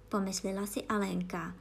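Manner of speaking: ordinary delivery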